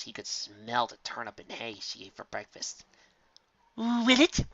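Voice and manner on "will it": higher, pointed repeat; insistent repeated question; Rarity leaning in. Acted. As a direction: lean in and demand it. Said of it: "She leaned forward".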